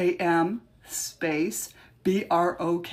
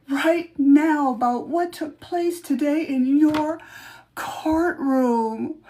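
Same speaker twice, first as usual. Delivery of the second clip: higher, louder hammed-up witch voice; 5 semitones higher, 4 dB louder than usual. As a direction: read the letter like a mock witch. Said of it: "I'm gonna change my voice a little bit".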